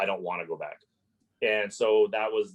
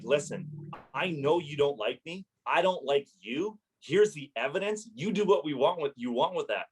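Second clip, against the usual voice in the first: higher, pointed fed-up reply; fed up retort; 6 semitones higher than usual. Retold or imitated. Landlord snapping at the hostile hearing officer over the phone. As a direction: finally push back, voice rising. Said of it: "So finally".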